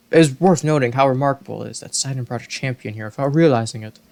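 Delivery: lightly voiced regal fish king; a hint of a booming Zora monarch; kingly Zora voice. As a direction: speak as a gracious old king. King Dorephan voice continues.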